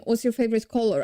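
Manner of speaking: careful English-style accent from a Polish speaker; attempted English accent. Shown as a demonstration. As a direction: try an English accent, no rolled R. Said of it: "I try to make your accent".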